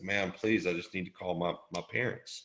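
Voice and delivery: barely got the energy to ask; weak plea. Retold or imitated. Injured teen begging homeowner, faint weak plea. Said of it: "And I said".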